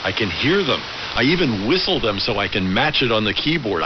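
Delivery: ordinary talk, nothing marked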